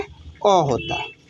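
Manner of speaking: अ drawn out slowly as a short a sound; slow, careful model pronunciation; demonstrating the sound. Shown as a demonstration. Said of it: "इसका sound क्या होता है?".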